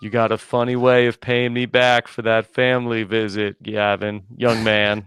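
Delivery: lightly voiced Boston Ron; a half-there impression of a scolding Bostonian. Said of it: "it's like Boston Ron, you know, you're, like, halfway there".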